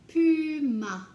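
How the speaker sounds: loud, high model of Puma; called out word. Shown as a demonstration. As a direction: announce Puma loudly to the class. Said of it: "teacher word drill".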